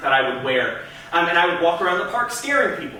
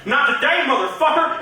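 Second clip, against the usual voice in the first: angry redneck; 8 semitones higher than usual. Retold or imitated. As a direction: belt it like a redneck picking a fight. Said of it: "he goes".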